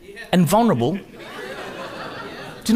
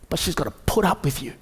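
usual speaking voice

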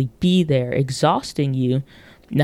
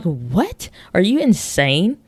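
incredulous; 3 semitones higher, slower than usual. Pretend. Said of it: "You're like".

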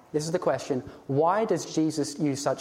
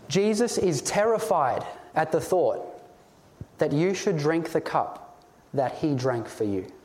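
slow, weighty first take. Shown as a demonstration. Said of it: "solemn repeated warning".

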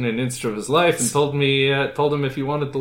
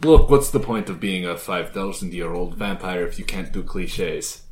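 put-on Transylvanian accent; 7 semitones lower than usual. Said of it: "Hence the accent".

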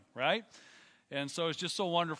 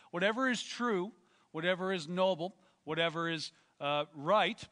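scripture reading. Acted. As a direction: read it out like a preacher. Reads scripture in preaching voice.

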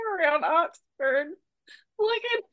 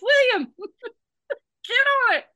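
excited call; 7 semitones higher, 4 dB louder than usual. Retold or imitated. Teasing friend to go search.

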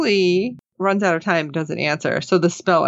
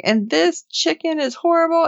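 mock drunken complaint; 10 semitones higher than usual. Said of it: "she's mad and she's trashing food".

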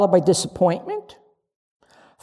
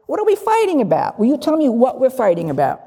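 mock exasperation; 5 semitones higher, faster than usual. Exasperated mock shout in quarrel.

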